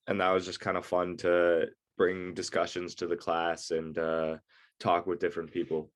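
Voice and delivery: talking with a blocked nose; stuffy, congested voice from a cold; stuffed-up nose. Real, not acted. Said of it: "if I sound weird right now, uh, I am a little bit stuffed up".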